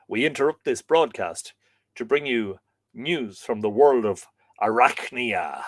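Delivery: put-on old radio announcer. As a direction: announce it like breaking news. Mock news bulletin about spider.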